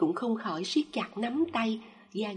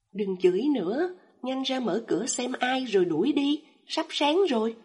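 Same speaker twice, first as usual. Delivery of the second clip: irritated snap; 3 semitones higher, 4 dB louder than usual. Acted. Annoyed girlfriend snaps.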